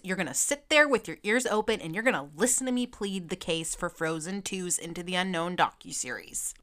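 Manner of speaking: half-joking drill-sergeant warning; mock stern order. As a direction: playfully command them to stay put. Ordering viewers to keep watching.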